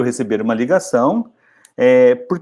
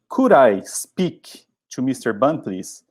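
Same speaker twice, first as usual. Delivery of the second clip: slow, clear model sentence for learners; slow model phrase; much slower than usual. Shown as a demonstration. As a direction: read it slowly for the class to copy. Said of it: "Você pode ir na lata direto".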